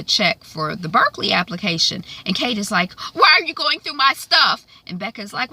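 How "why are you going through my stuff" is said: mock indignant teen. Kate retold snapping at mother.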